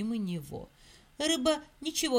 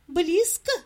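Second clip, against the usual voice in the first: worried; 6 semitones higher, 4 dB louder than usual. Acted. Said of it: "заволновался мышонок".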